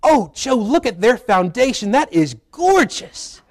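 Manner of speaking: a hint of the wife gushing, slow on gorgeous; lightly voiced wife. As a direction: gently mimic his wife admiring the foundation. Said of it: "she goes".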